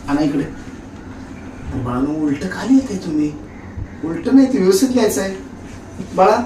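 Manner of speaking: lovingly. Acted. Husband keeps sweetly coaxing the kids to write properly. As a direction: soothe the children with soft endearments. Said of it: "इतक्या प्रेमानं तुम्ही शिकवताय?".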